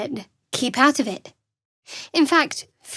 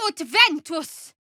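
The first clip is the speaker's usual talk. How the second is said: higher, slow, forceful casting chant; spell incantation; 6 semitones higher, slower than usual. Acted. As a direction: call out the spell like a battle cry.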